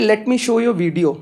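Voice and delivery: stretched out, very slow English; slow ominous announcement; slow, deliberate. Retold or imitated. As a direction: lay each word down slowly like a stern teacher. Teacher slowly announces video.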